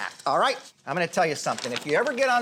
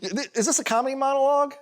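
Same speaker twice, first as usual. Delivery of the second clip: talking through laughter, pitch jumping higher; helpless laughter; 6 semitones higher than usual. Real, not acted. Acting coach mocking a student's monologue to the class, laughing. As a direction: break up laughing while trying to speak.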